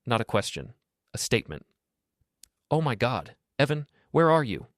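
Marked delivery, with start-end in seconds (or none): 2.7-4.7 Jade high-pitched and ragged, near tears. A narrator's reading. Jade calling her husband, frantic: high and ragged. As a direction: pitch it up, breathless from crying. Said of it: "Jade's voice was high-pitched, ragged".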